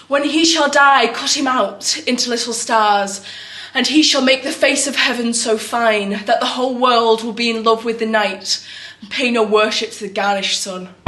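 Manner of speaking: measured recitation, gradually sinking in pitch; poetry recitation. Acted. Actor recites verse to the group, measured recitation.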